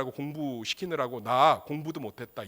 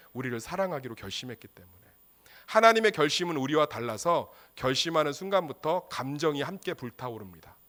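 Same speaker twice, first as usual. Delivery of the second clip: ordinary talk, nothing marked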